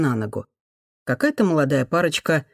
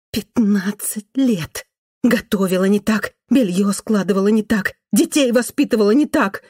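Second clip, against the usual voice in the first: bitter complaint that builds, stress on не так; resentful listing of grievances; rising irritation; irritated; 5 semitones higher than usual. Acted. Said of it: "тихий, раздражённый женский голос".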